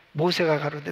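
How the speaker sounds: ordinary talk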